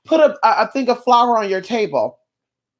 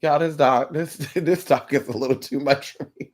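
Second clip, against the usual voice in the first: low, softened aside with a laugh; overwhelmed aside; 5 semitones lower, 4 dB quieter than usual. Real, not acted. Reader admitting it's too much, low amused aside. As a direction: confide it quietly, pitched down. Comic aside, later repeated in squeal.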